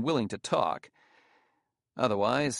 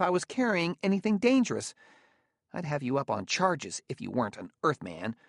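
higher-pitched, aggrieved Spacer voice; indignant Spacer; 6 semitones higher than usual. A narrator's reading. Spacer complaining to Bailey about being searched by robots, indignant. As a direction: play a put-upon, protesting Spacer.

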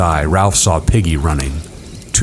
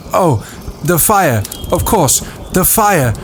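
put-on higher boy voice; Ralph voice; 11 semitones higher than usual. A narrator's reading. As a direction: voice young Ralph. Ralph remembers.

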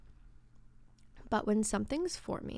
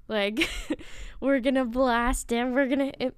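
louder, laughing, pumped up; laughing hype; 3 semitones higher, 4 dB louder than usual. Pretend. Voicing unlimited possibilities, laughing and hyped. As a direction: burst out with giddy energy. Acting out wild excitement.

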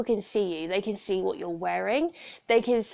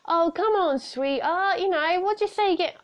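badly faked catcaller, pitched up and pushy; bad man's voice; 8 semitones higher than usual. Man in a car calling to a woman, bad man's voice. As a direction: do a poor impression of a wheedling man. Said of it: "I do a really bad man's accent".

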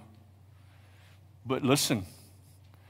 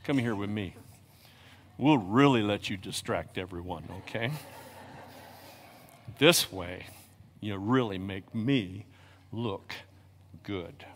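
much softer, low; 7 semitones lower, 9 dB quieter than usual. Real, not acted. Aside to a small child.

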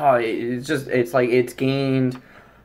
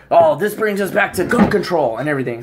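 higher mock exclamation; mock debaters' outcry; 4 semitones higher than usual. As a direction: exclaim it like people seizing on a cause. Acting out tragedy-time debaters.

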